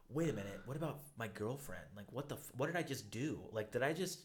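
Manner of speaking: hushed dismay at himself; dawning guilt. Retold or imitated. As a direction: let the realization sink in quietly. Realizing he cheated in dream.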